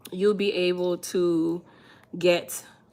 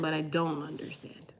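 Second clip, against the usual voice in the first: whispered don't; 7 dB quieter than usual. Real, not acted. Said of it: "I can understand".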